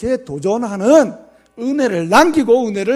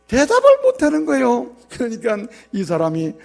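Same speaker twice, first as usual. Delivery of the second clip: ordinary delivery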